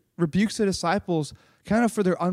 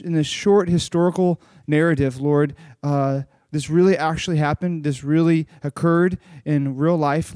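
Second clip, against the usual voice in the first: prayer; 4 semitones lower than usual. Real, not acted. Leads a prayer.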